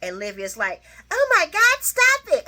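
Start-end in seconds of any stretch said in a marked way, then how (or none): 1.1-2.4 high, loud mock shriek; shocked Olivia. Olivia begging them to stop, high loud shriek. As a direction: squeal it out like a stunned soap wife.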